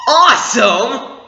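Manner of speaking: high, slow, drawn-out cheer; real delighted shout; excited shout. Real, not acted. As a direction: cheer like a fan at the reveal. Harrison Ford shows up.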